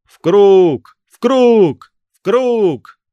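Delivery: very high, loud chant of ghouls; rising crowd of spirits screaming; shouting. A narrator's reading. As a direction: yell it as a mob. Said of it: "закричала остальная нечисть".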